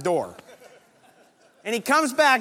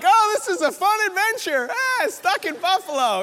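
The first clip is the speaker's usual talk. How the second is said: imitating laughing wife; 12 semitones higher, 4 dB louder than usual. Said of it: "Susie just starts laughing".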